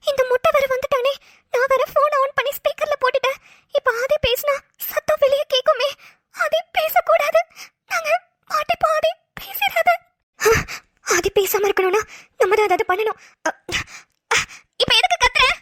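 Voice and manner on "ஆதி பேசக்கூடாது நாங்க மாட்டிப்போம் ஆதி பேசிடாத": tearful, slow, higher begging; panicked plea. Acted. Captive girl begging Aadhi not to speak, tearful. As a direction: pray he stays silent, tearful.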